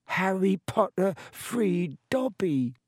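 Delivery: high, slowed house-elf voice; freed elf gazes up at his rescuer; shrill elf. A narrator's reading. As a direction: squeak it out in awe. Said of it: "said the elf shrilly".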